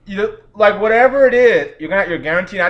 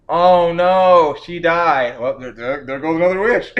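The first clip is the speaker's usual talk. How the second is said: lackadaisical; 4 dB louder than usual. Retold or imitated. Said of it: "the most lackadaisical expression".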